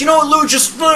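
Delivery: high, scolding wife impression; friend's wife scolding Lou, high pitched; mock wife scolding. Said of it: "she's like".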